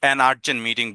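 "an urgent meeting" very slowly, an clearly linked; slow example. Shown as a demonstration. Teacher slowly modelling an before urgent. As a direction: drag out each word for the class. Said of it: "an umbrella বলছি".

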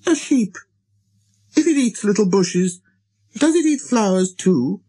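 put-on very high child-prince voice; little prince, demanding. A narrator's reading. Little prince abruptly questioning the pilot about sheep, demanding. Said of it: "he demanded".

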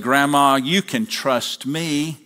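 lightly voiced child, slow and coaxing; little girl. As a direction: coax grandma slowly, a hint of a little girl. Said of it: "the little girl said".

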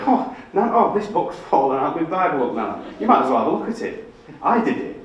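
playfully angle for nan's praise; hammed-up showing off. Proud grandchild showing nan the first book, hammed-up boasting.

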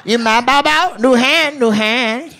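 high-pitched mock Asian dealer accent. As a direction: advise the player in a comic Asian dealer accent. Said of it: "I perfected that voice".

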